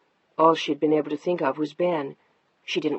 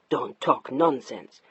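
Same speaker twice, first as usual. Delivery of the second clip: lower, slow dismissive husband; 4 semitones lower, slower than usual. Acted. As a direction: brush her off slowly. Narrator voices husband Mark.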